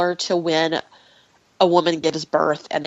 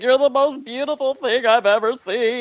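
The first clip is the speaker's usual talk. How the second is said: higher, adoring gush; lightly voiced doting mother; gushing mom; 6 semitones higher than usual. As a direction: gush over her like a new mother. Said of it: "And I'm like".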